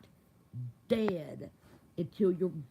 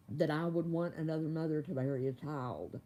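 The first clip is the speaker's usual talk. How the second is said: crying; 6 semitones lower, 4 dB quieter than usual. Real, not acted. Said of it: "I'm crying".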